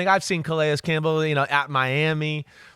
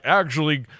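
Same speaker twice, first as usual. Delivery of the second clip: Leonard Davis. Retold or imitated. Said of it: "And he'd talk like this".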